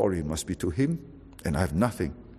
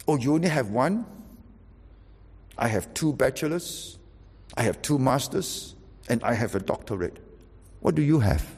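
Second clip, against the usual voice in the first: boastful. Retold or imitated. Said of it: "with this attitude".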